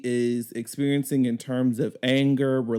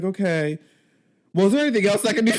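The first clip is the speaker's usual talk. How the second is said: higher, louder, fast chirpy agent voice; fake customer service cheer; 6 semitones higher, 4 dB louder, faster than usual. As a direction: rush out the sign-off sweetly. Rushed fake-polite call closing.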